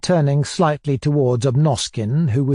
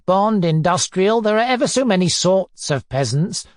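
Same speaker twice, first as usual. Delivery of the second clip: higher, pedantic interrogation; insistent, lecturing inquisitor; pompous tyrant; 6 semitones higher than usual. Acted. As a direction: list the options with bullying precision. Narrator plays Foma interrogating.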